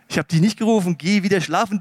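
firm, emphatic teacher's denial; mildly exasperated old teacher, voice pushed. Acted. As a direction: send the boy off briskly and firmly. Eli's first denial to the boy.

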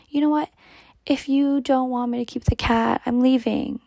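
re-enacting a dramatic threat to leave; dramatic retold ultimatum. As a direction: throw down an ultimatum, mock-dramatic. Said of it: "I was so dramatic though".

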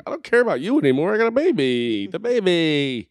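mock exasperated rant at his wife; mock outburst. Telling his pregnant wife off in a hammed-up, fast rant. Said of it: "I'm like".

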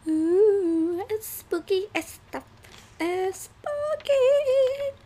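high slow ghostly "ooh"; spooky voice. Pretend. Spooky theme, mock ghost tone.

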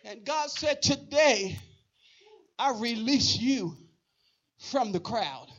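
suddenly soft, measured preacher delivery; hushed pronouncement. Real, not acted. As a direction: let it settle into a quiet, solemn release. Hushed word from God after shouting.

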